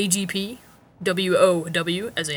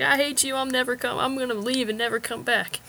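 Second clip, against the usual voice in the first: frantic, high, freaked-out yell; 6 semitones higher than usual. A man storming into his room after his little brother planted a camera: retelling a yell. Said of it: "yelling like".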